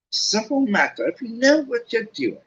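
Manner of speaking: high, breezy show-off; breezy Lockhart. Acted. Lockhart strolls out chatting, breezy and high. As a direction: toss it off confidently.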